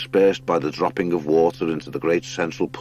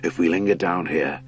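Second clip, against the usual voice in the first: badger lord. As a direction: lead them through like a big old lord.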